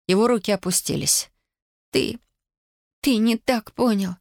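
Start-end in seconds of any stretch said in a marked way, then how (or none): 1.9-4.2 high, halting, mildly tearful; sobbing. A narrator's reading. Tatiana says he misunderstood, a touch of sobbing. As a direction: falter and stretch the words tearfully. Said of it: "всхлипнула она".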